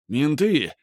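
alarmed warning shout. Acted. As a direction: yell out a warning. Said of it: "кричали где-то рядом". (крик тревоги)

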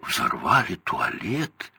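slow, wondering "Взорвали туалет?" with a rising end; mock astonishment. A narrator's reading. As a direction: echo it, feigning shock. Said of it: "изумился один".

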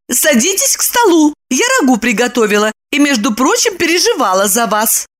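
high, bossy woman's voice; ordered. A narrator's reading. Lipochka orders Roman to sit and eat. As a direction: order him to the table. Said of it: "приказала".

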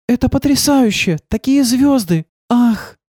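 high, amazed exclamations; awed. A narrator's reading. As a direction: marvel at the view. Milena sees the stars. (восторженно, высоко)

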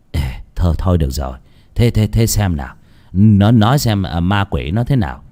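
calm her down, stumbling a little; gruffly reassuring husband; soothing husband. Acted. Husband soothes his frightened wife.

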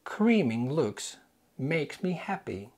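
drawn-out wrong hearings; slow deliberate misheard versions; slow mishearing demo. Shown as a demonstration. Teacher acting out what learners might mishear, slowly. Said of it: "What did you hear".

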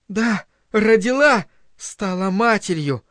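high, slow, defiant declaration; defiant challenge. A narrator's reading. Linda challenging the shocked silence, defiant. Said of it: "бросила это как вызов".

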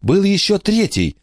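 put-on high, wary old lady voice; warning old lady. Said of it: "предупредила она".

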